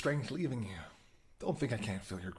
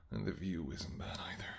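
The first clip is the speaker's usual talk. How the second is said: whisper; 3 semitones lower, 7 dB quieter than usual. Acted. Admiring the hunter.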